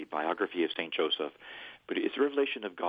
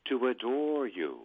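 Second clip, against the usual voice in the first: prayer phrase; 4 semitones higher than usual. Shown as a demonstration. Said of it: "But I'll do it phrase by phrase".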